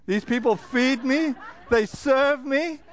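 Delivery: a hint of a cat marvelling at itself, slowing at the close; cat's voice. Cat speaking of the people who feed it, lightly voiced. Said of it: "and the cat says".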